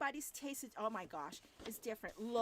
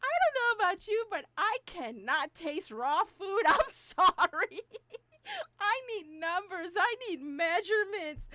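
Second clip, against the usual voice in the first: exasperated plea; 6 semitones higher, 11 dB louder than usual. Retold or imitated. Exasperated plea, half laughing.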